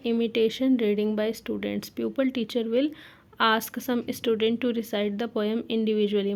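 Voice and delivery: slow, spaced-out dictation pace; teacher dictating notes slowly. Shown as a demonstration. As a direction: spell out each phrase for note-taking. Dictating lesson plan text.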